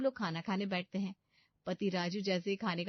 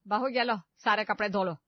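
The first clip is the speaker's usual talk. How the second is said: bossy order; 2 semitones higher, 8 dB louder than usual. Acted. Mother-in-law orders laundry.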